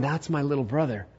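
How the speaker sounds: hushed, softly acted wonder; understated tender emotion; moved. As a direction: say it quietly, moved at seeing your brother. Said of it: "he just was so moved".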